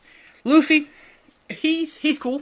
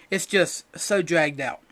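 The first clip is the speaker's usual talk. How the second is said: tired repeat; slower than usual. Shown as a demonstration. Repeating his complaint about the arc, slow and deflated. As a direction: let it sag, worn out by the show.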